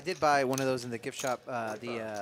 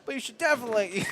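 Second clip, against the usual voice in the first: loud, hushed-advice commentator; golf announcer voice; 4 semitones higher, 8 dB louder than usual. Retold or imitated. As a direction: play it like a TV sports announcer. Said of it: "the commentator is like".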